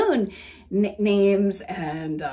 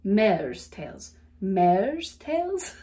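"Mare's" careful, non-Southern, single plain vowel; non-Southern take on "Mare's tails"; non-Southern accent; 2 semitones lower, much slower than usual. Shown as a demonstration. Trying to say it like a non-southerner, non-Southern accent. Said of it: "how do you say that like a non-southerner".

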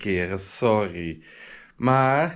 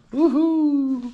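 a much higher loud whoop; joyful whoop; 5 dB louder than usual. Real, not acted. Overjoyed at being in love, a high loud whoop. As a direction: cheer like you won.

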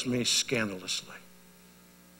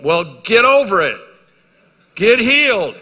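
louder, higher, drawn-out rebuke; blunt rebuke; 7 semitones higher, 8 dB louder, slower than usual. Real, not acted. A pastor firmly rebuking a man who blames his dad. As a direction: snap them out of their excuse. Preacher rebukes a listener's excuse.

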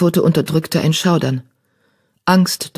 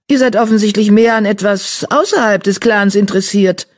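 higher, grim accusation; growled; 5 semitones higher, 3 dB louder than usual. A narrator's reading. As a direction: growl it with suspicion. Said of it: "knurrte Mausefell". (grimmig knurrend)

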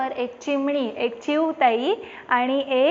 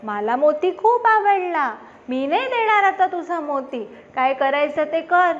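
gloating crow; 3 semitones higher than usual. Acted. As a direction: tease her, refusing smugly. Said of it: "कावळेदादा हसायला लागतो".

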